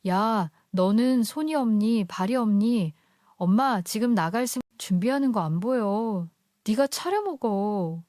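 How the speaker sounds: mildly curt, nagging mother's scolding; a touch of brusque impatience. Acted. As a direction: lightly voice an irritated mother brushing off her child. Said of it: "퉁명스러운 목소리로".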